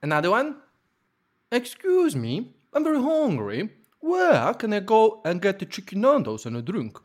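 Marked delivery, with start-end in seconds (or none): 1.5-7.0 sing-song, badly faked Scouse; attempted Liverpool accent. Contestant performs another accent for guessers, attempted Scouse. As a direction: put on a wildly swooping Liverpool accent.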